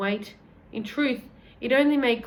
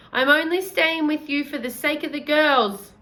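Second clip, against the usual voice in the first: raised, louder voice, bitter and cutting; a quoted parental quarrel line, louder and higher; bitter retort; 6 semitones higher, 6 dB louder than usual. Acted. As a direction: spit it out like a resentful wife. Mother's remembered angry line.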